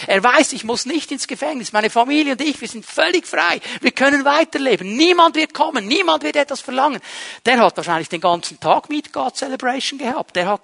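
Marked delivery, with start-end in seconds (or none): 0.5-7.0 relieved joy. Acted. Freed debtor rejoices inwardly.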